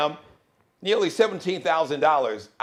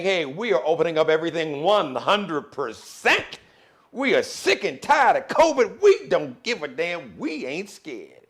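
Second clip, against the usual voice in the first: louder, higher defiant announcement; mock governors; 4 semitones higher, 5 dB louder than usual. Governors announcing full reopening, loud mock defiance. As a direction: parody the governors' bravado. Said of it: "your governors are saying".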